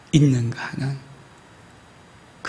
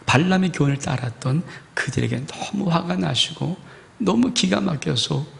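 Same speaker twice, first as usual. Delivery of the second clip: ordinary talk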